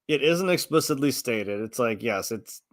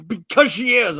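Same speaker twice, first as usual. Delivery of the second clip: high, loud imitated retort; mock insistence; 8 semitones higher, 6 dB louder than usual. Mimicked fans answering a demand for proof, high and loudly insistent. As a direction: parrot a stubborn fan insisting.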